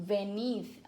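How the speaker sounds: "venid" stressed on its final syllable; stress on last syllable. Shown as a demonstration. Teacher showing the vos imperative, stress on last syllable. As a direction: put the weight on the end of "venid". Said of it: "sempre a última sílaba tônica".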